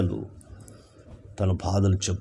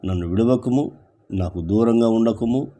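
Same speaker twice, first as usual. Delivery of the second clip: higher and louder, begging; pleading cry; 4 semitones higher, 4 dB louder than usual. Shown as a demonstration. Preacher voicing the psalmist begging God not to leave, higher pleading cry. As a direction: lift the plea up as if crying to God. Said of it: "చూసారా".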